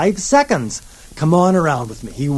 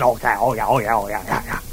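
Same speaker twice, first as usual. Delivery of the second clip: lower, lazy dragon drone; a deep-ish tired dragon humming yes; 6 semitones lower, 5 dB quieter, much faster than usual. Acted. Dragon answering the princess, lower and drowsy. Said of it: "And the dragon said".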